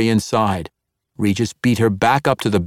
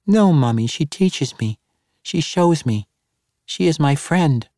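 put-on higher, earnest child voice; insistent little girl; 5 semitones higher than usual. Child defends friend to mother.

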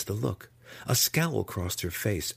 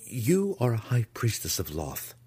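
higher, forthright declaration; bold; 4 semitones higher than usual. A narrator's reading. Impostor addresses the high priestess, bold and higher. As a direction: state it boldly, throwing off caution. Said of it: "Alton said boldly".

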